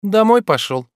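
barely answering. A narrator's reading. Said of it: "едва отвечала она".

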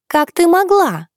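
high, loud anguished wail; wailing cry. A narrator's reading. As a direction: wail it out in despair. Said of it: "возопила она".

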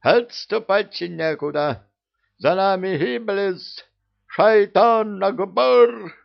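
high, loud, slow rallying shout; rousing war cry. A narrator's reading. Mahmud on the wall rousing his army, shouting. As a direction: fire up the defenders. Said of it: "вдохновлял ... Махмуд свою армию".

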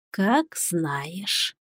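quiet creature voice. Acted. Soft creature reply.

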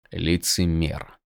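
a soft, slow hiss. Acted. Prisoner hissing about the king, soft and slow. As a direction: spit the word under the breath. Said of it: "прошипел Каладин".

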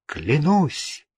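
solemn vow. A narrator's reading. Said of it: "торжественно отвечал астролог".

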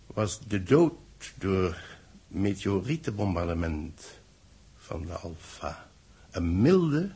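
formal, solemn announcer reading; press communiqué read. Acted. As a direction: dictate the bulletin with grave ceremony. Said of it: "daar gaan we dan". (plechtig voorgelezen persbericht)

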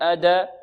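أد released as 'ada'; wrongly leaning to fatha. Shown as a demonstration. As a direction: show the error: add an a after أد. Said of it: "لا نقول".

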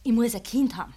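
insistent. Acted. Trotziges Verlangen bei Großmutter.

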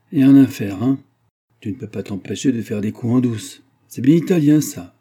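a friend's loud needling outburst; loud mock exclamation. Michaud exclaims at sneaky trick.

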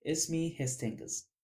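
mildly cool, quiet self-introduction; cold. A narrator's reading. Friend corrects a teasing girl about his name, coldly. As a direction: give your name coolly, a touch offended. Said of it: "قلت ببرود".

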